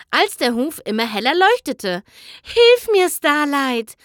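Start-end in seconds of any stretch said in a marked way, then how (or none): 2.4-4.0 hissed plea. Acted. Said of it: "zischte sie aus dem Mundwinkel".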